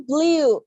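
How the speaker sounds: BLUE with an ee-oo glide; teacher modelling "blue" in an American accent; American pronunciation. Shown as a demonstration. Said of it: "In American, it sounds like a blue".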